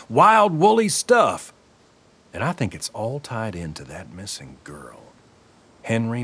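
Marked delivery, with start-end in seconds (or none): 0.1-1.5 excited. Acted. Egging on a conspiracy fan.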